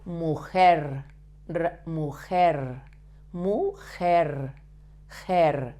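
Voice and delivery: MUJER with a lightly vibrated final R; tongue-tip R. Shown as a demonstration. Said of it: "vibrate a little bit the tip of your tongue".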